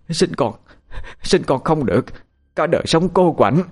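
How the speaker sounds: high cursing through gritted teeth. Acted. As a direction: hurl the curse at them. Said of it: "nghiến răng lên mà chửi". (bà già nghiến răng nguyền rủa)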